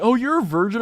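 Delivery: high mocking Californian imitation; gay Californian voice. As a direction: put on a high Californian voice to tease. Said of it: "the gay Californian voice".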